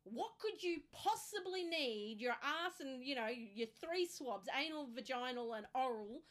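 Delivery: mock a sceptical expert; incredulous. Pathologist questioning the patient's swabs, slow and disbelieving. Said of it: "finally he's gone".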